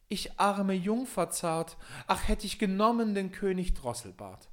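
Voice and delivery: lament. Acted. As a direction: mourn the lost king in a high voice. Klagende Prinzessin. (hohe, langsame Klage der Prinzessin)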